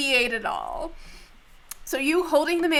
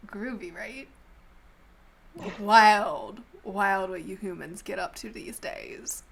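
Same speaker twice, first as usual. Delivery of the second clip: talking snake; 2 semitones lower than usual. Acted. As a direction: play a groovy, easygoing snake. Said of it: "it kind of sits up, looks at you, and goes".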